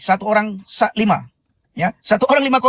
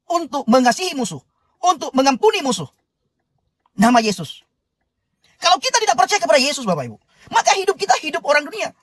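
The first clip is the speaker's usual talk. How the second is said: earnest sermon voice, building and lifted; preaching. Acted. Host preaching to live viewers about Dale, earnest sermon. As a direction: preach it to the congregation with conviction.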